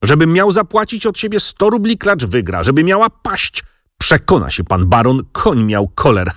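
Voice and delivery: a mild build from grumble to outraged cry; voice rising. Acted. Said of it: "coraz mocniej podnosząc głos".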